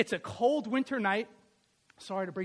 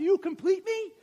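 Jerry Maguire line; 8 semitones higher, 3 dB louder than usual. Retold or imitated. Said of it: "Jerry Maguire, remember".

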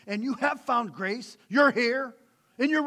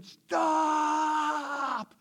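raised, higher call of stop; mild mock yell; 8 semitones higher, 4 dB louder than usual. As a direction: yell it like on the highway.

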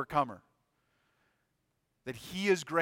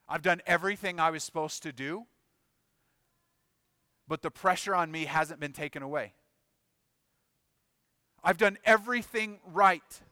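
frustrated complaint; 3 semitones higher, 4 dB louder than usual. Acted. Voices Elijah's frustrated complaint to God.

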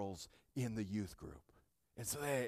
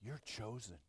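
soft, low, almost to oneself; hushed assurance; 4 semitones lower, 9 dB quieter than usual. Real, not acted. Pastor telling listeners what the passage says, hushed assurance. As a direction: let it drop to a hush. Same words hushed, then proclaimed.

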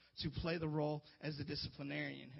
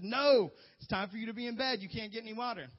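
firm dad; 5 semitones higher, 8 dB louder than usual. Retold or imitated. Dad refusing the kid.

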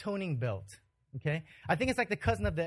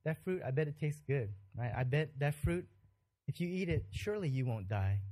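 whispering; 4 semitones lower, 5 dB quieter than usual. Retold or imitated. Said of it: "He whispers to Eve".

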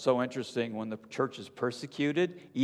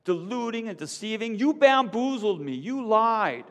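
higher, louder outraged cry; 12 semitones higher, 5 dB louder than usual. A narrator's reading. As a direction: accuse him bitterly. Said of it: "she cried".

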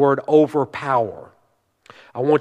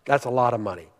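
hushed repeat; 4 semitones lower, 6 dB quieter, much faster than usual. Real, not acted. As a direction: lower and much softer. Repeats aside lower, for effect.

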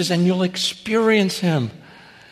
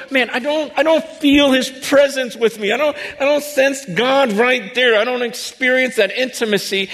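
whiny complainer; 6 semitones higher than usual. Retold or imitated. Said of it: "some of you go".

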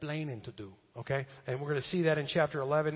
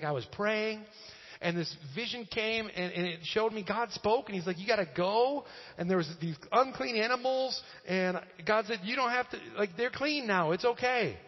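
lightly acted, higher-pitched self-defense; Peter; 5 semitones higher than usual. Apostle retelling his vision to critics, mildly defensive. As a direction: explain it earnestly in a raised pitch. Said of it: "he's defending himself".

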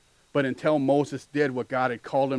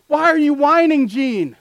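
exasperated, higher and louder; a mock stern God; lightly voiced God scolding; God's voice; 11 semitones higher, 9 dB louder, slower than usual. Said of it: "He's like".

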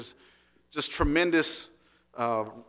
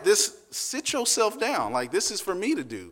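playful command; 6 semitones higher than usual. Retold or imitated. Husband telling wife to stay.

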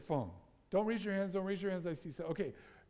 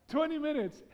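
amused disbelief; 7 semitones higher, 4 dB louder than usual. Real, not acted. Laughing disbelief at twenty minutes.

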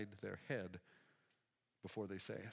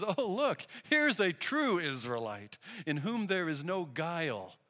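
louder, higher, glad exclaim; delighted greeting; 3 semitones higher, 5 dB louder than usual. Retold or imitated. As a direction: announce him with delight. Jesus greets Nathanael warmly.

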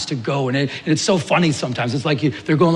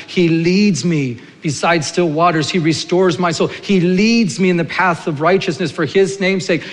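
psalm recitation; 2 semitones higher than usual. Acted. Pastor reciting Psalm 23 to church, building to fervent. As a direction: recite the psalm, swelling with conviction.

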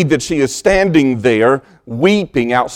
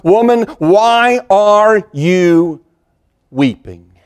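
higher and slow on "Woman, why are you", then sinking on "weeping?"; personal comfort; 5 semitones higher, slower than usual. Acted. Jesus calls to grieving Mary at the tomb, drawn-out and tender. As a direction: stretch "why" out in a tender call, let "weeping?" fall. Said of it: "there comes this word of personal comfort".

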